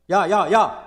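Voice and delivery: loud, forceful hollered calls; big shouted summons; calling out loudly. Shown as a demonstration. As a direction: holler to get someone's attention. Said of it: "어떻게 하고 있냐면 불러요".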